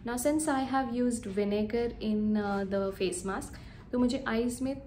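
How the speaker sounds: talking through drying face mask; careful lip movement under mask; speaking with clay mask on. Real, not acted. Seen 0: Green clay mask covers her whole face while she talks.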